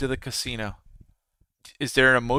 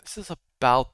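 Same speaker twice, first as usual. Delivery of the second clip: whispered to self; 2 semitones lower, 4 dB quieter, slower than usual. Real, not acted. Checking chart under his breath.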